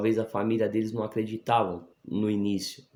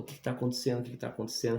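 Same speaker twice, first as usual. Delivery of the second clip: mildly alarmed, higher-pitched imitation; startled wife; 4 semitones higher, 4 dB quieter, much faster than usual. Wife woken by his crying asks what happened, mildly startled imitation. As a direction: lightly imitate a startled, urgent question. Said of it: "é, assustada".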